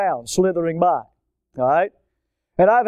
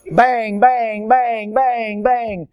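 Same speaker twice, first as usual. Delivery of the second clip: high, rhythmic hammering bangs; imitated pounding; 4 semitones higher, much slower than usual. Man pounds snake into the ground, hammering. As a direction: pound out each word in quick even blows.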